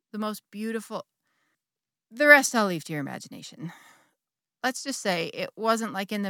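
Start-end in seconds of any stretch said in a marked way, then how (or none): 0.1-1.0 soft, hushed lover's murmur; whispered. Retold or imitated. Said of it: "he whispers".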